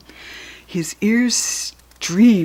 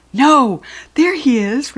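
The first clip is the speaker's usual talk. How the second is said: high, loud sudden cry; cried out; 6 semitones higher, 5 dB louder, slower than usual. A narrator's reading. Rachel spotting the goblin down the street, crying out. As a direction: call out as you spot him. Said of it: "Rachel cried".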